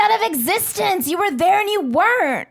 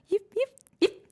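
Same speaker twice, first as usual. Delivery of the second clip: yappy chihuahua voice; 4 semitones higher, 4 dB quieter than usual. Pretend. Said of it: "can you make some, some of these sounds".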